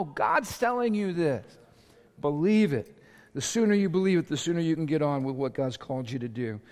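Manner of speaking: ordinary talk, nothing marked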